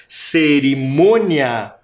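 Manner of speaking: "Cerimônia" drawn out, MÔ held long; stressed syllable. Shown as a demonstration. Teacher repeating the word for its tonic syllable, drawn-out "Cerimônia". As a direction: say "Cerimônia" slowly with weight on MÔ. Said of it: "também tem sílaba tônica".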